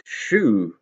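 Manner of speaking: loud, stern shout at the cows. A narrator's reading. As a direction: bellow to drive the cows off. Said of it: "he shouted".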